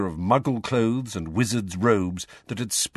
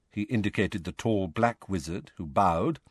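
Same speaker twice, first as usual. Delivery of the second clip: plain reading voice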